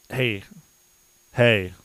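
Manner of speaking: loud re-enacted calling out; retold yell. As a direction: bark it like an order across a lot. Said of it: "I yell at him".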